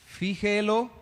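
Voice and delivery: "Fíjelo" stressed on FÍ; stress on first syllable. Shown as a demonstration. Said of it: "sería tilde en la I".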